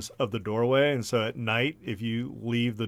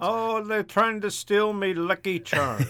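higher, slower hammed-up Irish leprechaun accent; 8 semitones higher, slower than usual. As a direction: play a cheeky Irish leprechaun. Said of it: "Irish accent".

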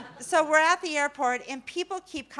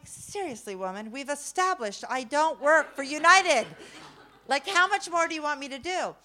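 punchy, louder comic protest; mock exasperation; 3 semitones higher, 5 dB louder than usual. Grandma to the seatmate who grabs her, exasperated. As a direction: protest as if your patience ran out.

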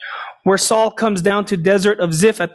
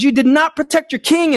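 higher-pitched imitated accusation; mock yell; 7 semitones higher, faster than usual. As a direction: call it out high, without full volume. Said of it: "David yells at Abner and says".

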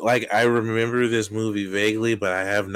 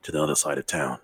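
fake British accent; 4 semitones lower, faster than usual. British Batman threatens to fetch the Batmobile, mock British accent. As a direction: lower British tough-guy grumble. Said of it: "fake accent that you're doing".

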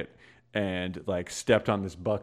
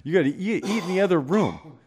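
mock scolding, rising higher at the end; higher-pitched, mildly irritated telling-off; retold scolding; 4 semitones higher than usual. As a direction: imitate an exasperated boss telling off a kid. Retold scolding from annoyed boss.

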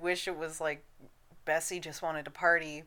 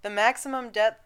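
radio announcer. Real, not acted. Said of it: "Why do you suddenly sound like a radio announcer?".

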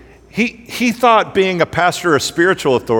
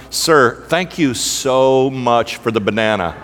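slow, drawn-out mock gratitude; imitating effusive thanks; 3 semitones lower, slower than usual. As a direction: play the grateful passenger, stretching each word. Grateful dad repeatedly thanking him.

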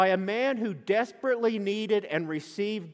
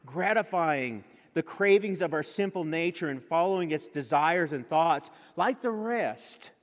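scripture reading; 2 semitones lower than usual. Acted. Reads scripture aloud.

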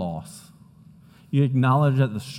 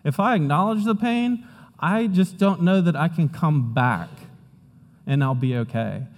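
higher, worried mock inner voice; anxious inner voice; 3 semitones higher than usual. Pastor voicing the congregation's fear of crying, mildly anxious. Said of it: "'Cause we think".

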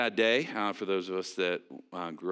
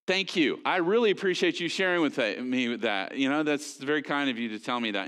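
polite brush-off; 3 semitones higher than usual. Retold or imitated. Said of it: "Like, just".

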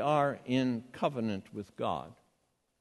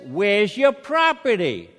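put-on loud, higher Revere accent; 5 semitones higher, 8 dB louder than usual. Security guy asks traveler for belongings, loud Revere accent. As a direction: demand it in a thick Revere accent. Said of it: "had an accent a lot like mine".

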